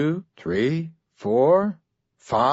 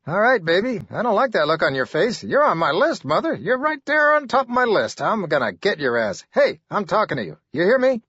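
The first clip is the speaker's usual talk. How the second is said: ranting threats; 8 semitones higher, faster than usual. Acted.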